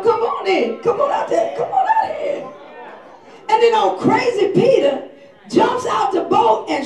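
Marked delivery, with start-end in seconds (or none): 0.0-2.4 rising higher, teasing call; playful invitation. Acted. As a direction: beckon him out, grinning. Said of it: "he told him".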